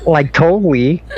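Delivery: put-on bubbly upspeak Valley girl; ditzy teen girl asking. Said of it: "that Valley girl voice".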